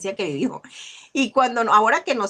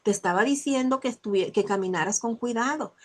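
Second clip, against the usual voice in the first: gentle mother; 4 dB quieter than usual. Retold or imitated. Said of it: "ser empáticas y enseñarle al niño".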